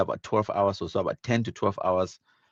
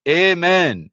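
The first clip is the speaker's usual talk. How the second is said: loud amen; 7 semitones higher, 7 dB louder than usual. Real, not acted. Answering a patriotic comment.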